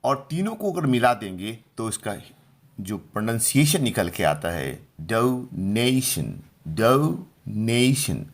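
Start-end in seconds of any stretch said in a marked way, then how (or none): 5.0-8.3 डोनेशन drawn out slowly, the ने syllable stressed; slow syllable-by-syllable डोनेशन, strong ने, light ending; stress on middle syllable. Shown as a demonstration. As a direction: slowly say डोनेशन as do-NAY-shun, weight on the middle. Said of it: "ने पर जोर लगाना है".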